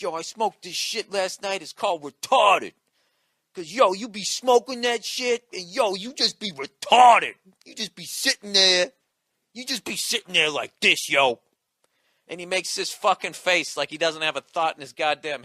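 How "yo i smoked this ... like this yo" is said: loud, mock stoner voice, key words drawn out; loud hammed-up impression of a weed smoker; excited stoner dude. Dude telling comic about last night's weed, hammed-up excitement. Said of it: "this dude came up to me, he's like".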